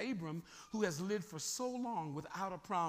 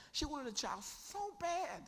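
higher, changed voice, aching; acted yearning voice; 7 semitones higher than usual. Shown as a demonstration. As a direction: play the barren woman aching. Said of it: "This is how bad this woman wanted a baby".

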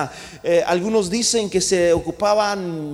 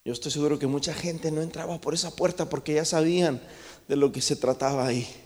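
ordinary delivery

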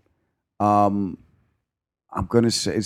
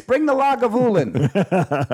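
mock grand order; 11 semitones higher, much slower than usual. Teasing host, mock order.

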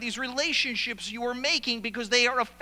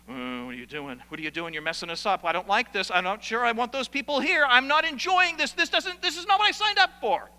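grumble, then climb into an outraged complaint; upset church member; 3 semitones higher, 5 dB louder than usual. Retold or imitated. Preacher mimics church member griping about newcomers, rising from mutter to loud protest.

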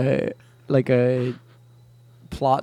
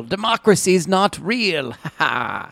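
slow, spooky crypt keeper narration; a lightly voiced ghoulish host. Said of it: "I am the crypt keeper".

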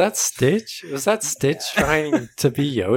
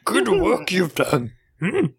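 Yoda voice; slower than usual. Pretend. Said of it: "three Yodas all talking".

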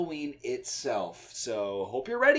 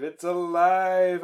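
louder slow triumphant cry; mad scientist shout; 3 semitones higher, 6 dB louder, much slower than usual. Pretend. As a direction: proclaim it like a mad doctor. Frankenstein quote, louder.

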